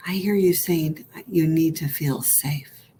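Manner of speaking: whispered comfort from a loving inner mother; tender whisper. Pretend. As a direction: soothe yourself in a hush. Mother self answers softly.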